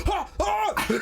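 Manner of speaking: very high, hammed-up gasping; squeaky double gasp of shock; mock shocked gasps. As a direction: imitate a scandalized viewer gasping. Acting out viewer's shocked reaction.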